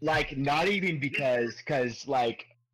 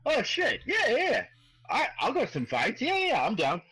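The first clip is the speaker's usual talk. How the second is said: much higher, delighted yeah yeah; eager bugbear; 11 semitones higher than usual. Acted. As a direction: jump at the idea like a kid. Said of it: "He's like".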